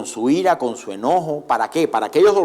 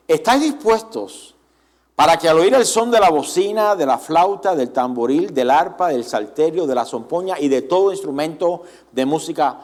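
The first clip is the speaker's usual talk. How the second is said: Nebuchadnezzar voice. Retold or imitated. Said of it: "imitar un poco la voz de Nabucodonosor".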